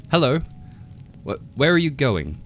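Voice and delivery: high, loud, nervous little frog; a scared small frog calling up brightly. A narrator's reading. Frog nervously hails the tiger, high and loud.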